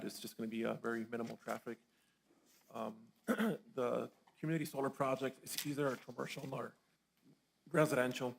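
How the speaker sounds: tired voice, going hoarse; talking while losing your voice. Real, not acted. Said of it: "I'm losing my voice here".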